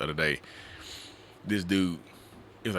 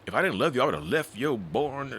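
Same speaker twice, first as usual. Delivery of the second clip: mock drunk partner; 6 semitones higher than usual.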